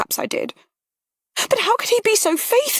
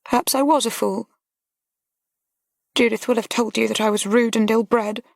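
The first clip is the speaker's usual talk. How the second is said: put-on higher, tearful young woman breaking down; young lady close to sobbing, higher; choked with tears; 8 semitones higher than usual. A narrator's reading. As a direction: let her crumble toward tears. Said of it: "Her utterance became choked by tears".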